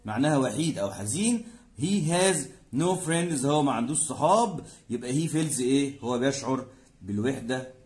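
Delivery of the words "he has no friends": slow teaching read. Shown as a demonstration. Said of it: "teacher reads English example".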